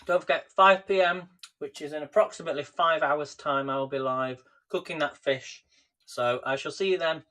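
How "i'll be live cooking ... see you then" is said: talking through a mouthful; chewing while talking. Real, not acted. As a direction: mouth full. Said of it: "Sorry I'm talking my mouth full".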